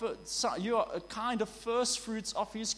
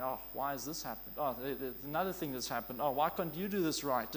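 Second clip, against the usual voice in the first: complaining; 6 semitones lower, 3 dB quieter, faster than usual. Retold or imitated. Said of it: "prone to complain, saying".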